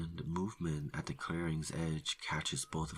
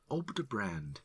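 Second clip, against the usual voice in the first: raising voice; 6 semitones higher than usual. A narrator's reading. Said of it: "raising his voice".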